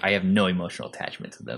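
soft, fast, flat-out blunt delivery; blunt and dry. Retold or imitated. Woman telling the interviewer about her clients, blunt and dry. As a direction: toss it off bluntly without feeling. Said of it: "she's so blunt".

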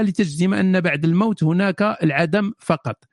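measured read-aloud in Standard Arabic; careful, formal reader's delivery; formal question reading. Acted. Reads out a formal written question.

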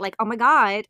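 put-on Valley Girl accent. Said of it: "It's the accent we love".

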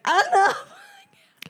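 whispered, choked-up cop; mock crying whisper. Listener imitates the crying cop in a whisper. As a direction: breathe it out like a weepy cop. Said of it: "The cop's crying at the end".

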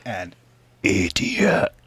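breathy whispered title word. Acted.

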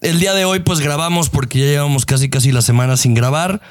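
upbeat show opening greeting; podcast host intro. Acted. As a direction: welcome the listeners like a host.

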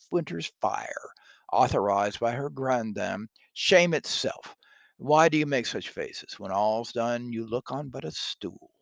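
loud scolding Lady Macbeth; hammy stage actor. Acted. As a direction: hiss contempt at a frightened husband. Lady Macbeth scolds her husband.

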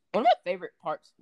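a voice that breaks mid-phrase; voice crack. Real, not acted. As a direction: voice cracking high on the words. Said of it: "voice crack".

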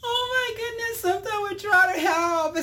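words breaking up with laughter; laughing while talking. Real, not acted. Vlogger to viewers after the monkey punchline, laughing.

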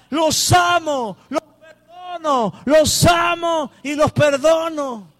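loud, slow, high proclamation; fierce inner cry. Acted. Preacher voicing Jesus forgiving his accusers, slow loud cry. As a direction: cry out love like it bursts from inside. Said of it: "Salvajemente en su interior sonaba".

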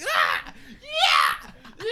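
high, loud festival whoop; mock crowd yelling. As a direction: yell like a crowd at a concert. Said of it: "standing somewhere for an hour".

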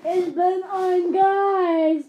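slow, drawn-out spooky ghost moan.

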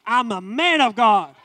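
a hint of Destiny mimicking dad; imitating Destiny. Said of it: "Then Destiny gets on me".

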